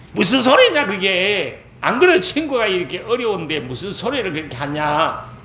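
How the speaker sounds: indignantly protest, as if losing your temper; indignant outburst. Retold or imitated. Elihu rebuking the friends of suffering Job, indignant outburst. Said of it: "벌컥 화를 내는 거예요".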